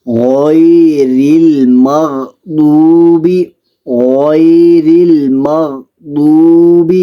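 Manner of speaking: in غیر und المغضوب Ghain und Dad voll und dunkel sprechen; غیر المغضوب mit schwerem Ghain rezitieren; volles Ghain. Shown as a demonstration. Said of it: "غین کو بھی پور پڑھنا ہے".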